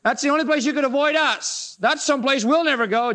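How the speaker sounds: a hammed-up scornful Pharisee; mocking Pharisees. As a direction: sneer down at him as the righteous ones.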